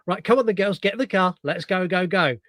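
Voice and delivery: urgent herding. Acted. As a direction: hurry them along, lightly acted. Acts out herding girls into car.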